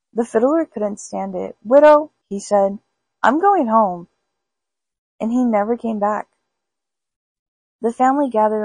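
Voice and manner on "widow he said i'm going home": panicked shout. Acted. Fiddler shouting to the widow as he flees. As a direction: blurt it out and flee.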